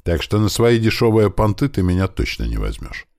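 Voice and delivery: ordinary delivery, nothing marked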